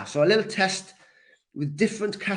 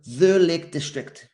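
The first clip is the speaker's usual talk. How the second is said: THE hit louder at the start; teacher's emphatic THE; stress on THE; 4 dB louder than usual. Shown as a demonstration. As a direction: punch the article THE, then let the name fall. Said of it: "we say the".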